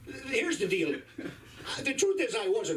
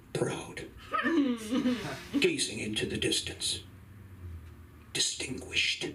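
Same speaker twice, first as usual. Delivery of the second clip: mock reverent hush; 3 semitones higher, slower than usual. Mock solemn mascot description.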